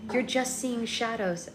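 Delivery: animated audiobook-style reading; storyteller voicing the dialogue lightly; story narration. A narrator's reading. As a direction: read aloud like a storybook.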